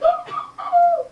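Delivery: high, loud gasp of wonder; amazed wow. Retold or imitated. Little boy gaping at the rusty trap, amazed. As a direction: let the wow fly up in awe.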